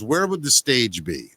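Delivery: lightly imitated rock star, slow delivery; a hint of a grand star, unhurried; Gene Simmons. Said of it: "and he goes".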